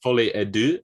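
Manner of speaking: "Folie à Deux" as FOO-lee ah DOO, rising; tentative French title, "Deux" like "doo"; pronunciation demo. Shown as a demonstration. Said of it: "how do you pronounce it".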